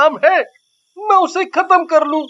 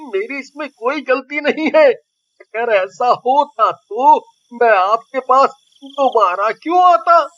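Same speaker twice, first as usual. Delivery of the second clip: pleading; 3 semitones lower than usual. Acted. Chilli pleads innocence to witch.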